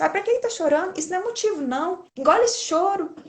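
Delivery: dismissive parent. Retold or imitated. Dismissive parent voiced, mocking example.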